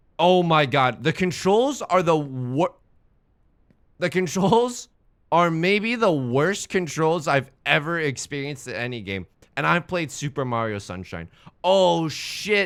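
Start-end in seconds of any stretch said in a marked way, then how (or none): none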